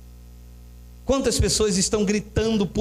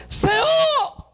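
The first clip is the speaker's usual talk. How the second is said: long high shouted call; crying out. Acted. Believer crying out to the Lord for help, acted shout. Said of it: "você gritar".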